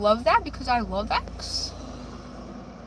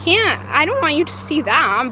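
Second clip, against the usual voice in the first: loud; 7 dB louder than usual. Real, not acted. Hiding the license plate.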